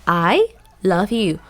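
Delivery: "I love you" with a questioning lift on "I"; questioning intonation. Shown as a demonstration. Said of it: "it's gonna be like the question".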